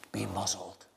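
quiet command. Retold or imitated. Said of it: "And Jesus just says".

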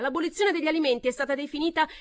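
very loud, high tirade; furious shout. A narrator's reading. Pamela shouting in the uproar, very loud. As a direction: roar it over them.

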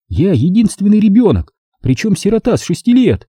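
high woman's voice, indignant; a high, bewildered woman denying it; Sonya, baffled. A narrator's reading. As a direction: protest it, pitched high. Sonya upset, near tears.

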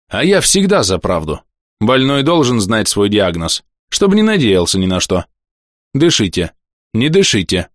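a hint of a blunt stern physician; stern doctor voice. Хмурый доктор осматривает больного. (лёгкий голос хмурого доктора)

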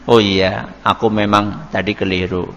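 low, softened admission of a mistake. Shown as a demonstration. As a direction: bring the voice down and own up gently. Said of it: "ya kita turunkan".

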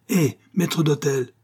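high, drawn-out hail; calling out. A narrator's reading. Captain summoning the steward, calling out. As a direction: hail someone to come back.

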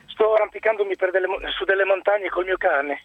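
talking while climbing, a bit breathless; short of breath on a mountain trail. Real, not acted. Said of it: "scusate il fiatone perché sono in salita".

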